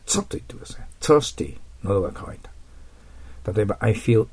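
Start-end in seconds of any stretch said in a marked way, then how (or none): 0.1-0.2 TH of thirsty as ツッ, tongue tip bitten; tongue between the teeth. Shown as a demonstration. Teacher shows students the TH sound, tongue-tip demo. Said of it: "ベロの先を噛んで". 1.0-1.6 thirsty with the tongue tip between the teeth. Shown as a demonstration. Teacher models thirsty for students, tongue-tip TH demo. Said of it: "ベロの先を噛んで、ツッと言ってください".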